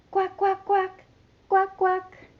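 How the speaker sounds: duck quacks. Shown as a demonstration. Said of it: "A yellow duck".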